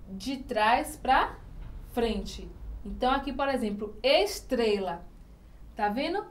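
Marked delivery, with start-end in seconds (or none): 4.0-5.1 "estrela" slowly, TRE held longer; stress on TRE. Shown as a demonstration. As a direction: draw out the middle of "estrela". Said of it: "É tré". ("estrela" devagar, destacando o -tre-)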